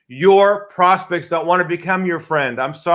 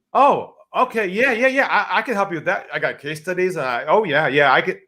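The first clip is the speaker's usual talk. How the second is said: eager salesman; 2 semitones higher than usual. Retold or imitated. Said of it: "What we do is".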